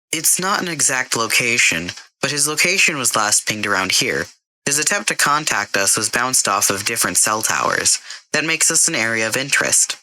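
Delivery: a computer voice that won't take the blame; a hint of a prim AI. Karen the AI answers Jason.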